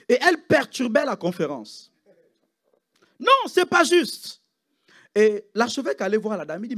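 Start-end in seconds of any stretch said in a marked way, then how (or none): 3.2-4.4 imitating an Asian accent, high and slow; mock Asian accent. Preacher imitating the complaining nurse, mock Asian accent. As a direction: drag out a high, sing-song "Non, c'est pas juste". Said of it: "avec l'accent asiatique".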